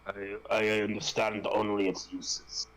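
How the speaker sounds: put-on slow Russian-accented line; measured, grave Russian accent. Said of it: "Since I was doing a Russian accent".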